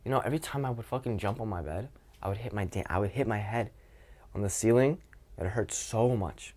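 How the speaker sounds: animated, emotionally invested; playful emotional telling. Shown as a demonstration. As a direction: tell it with feeling and play. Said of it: "You see the difference in emotion there?".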